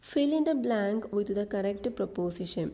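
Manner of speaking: slow, deliberate exam question read-out; slow dictation reading. Shown as a demonstration. Teacher reading a PSC question aloud slowly. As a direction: read each word slowly for the class.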